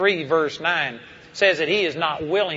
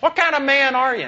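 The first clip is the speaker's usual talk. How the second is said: mildly indignant challenge, rising higher toward the end; retold confrontation; 4 semitones higher than usual. Preacher challenging a disabled girl's father, retold with mild indignation. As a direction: re-enact a pointed rebuke.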